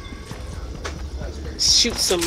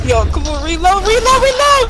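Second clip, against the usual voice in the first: higher, louder each time; urgent shout; 12 semitones higher, 5 dB louder than usual. Real, not acted. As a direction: push him to hurry. Urging teammate mid-fight.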